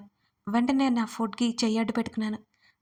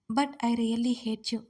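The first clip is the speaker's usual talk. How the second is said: put-on slow drunken confession; much slower than usual. Drunk husband slowly tells his wife he hates her. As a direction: drag each word out, very slow and heavy.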